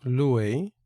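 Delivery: careful classroom pronunciation; Greek word demo. Shown as a demonstration. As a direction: pronounce luei for students. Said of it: "podemos ver ei al final".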